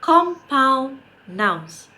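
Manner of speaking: drawn out, word by word for repeating; slow model pronunciation. Shown as a demonstration. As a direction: say it very slowly for the class to repeat. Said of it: "Can we say it again".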